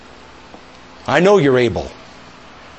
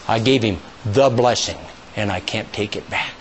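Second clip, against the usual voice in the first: sorrowful father; 7 semitones lower, 7 dB quieter than usual. Retold or imitated. Isaac answering Esau.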